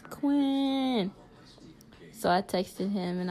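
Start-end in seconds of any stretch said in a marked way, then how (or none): 0.1-1.1 a higher, firm mock-mad call of his name. Shown as a demonstration. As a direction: say his name like he's in trouble. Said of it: "not funny, mad voice".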